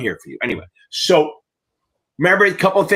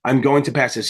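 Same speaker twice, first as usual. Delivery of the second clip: confident; 2 semitones lower than usual. Shown as a demonstration. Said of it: "Say it, like, ten times with confidence".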